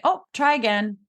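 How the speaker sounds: breezy parental nudge to retry; simple light prompt. Shown as a demonstration. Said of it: "Just, like, real simple".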